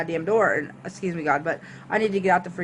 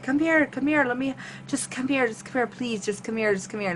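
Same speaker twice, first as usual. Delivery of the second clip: mildly begging, repeated and getting softer; 4 semitones higher, 3 dB quieter than usual. Retold or imitated. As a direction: imitate someone begging, higher at first then softer. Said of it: "like, begging me".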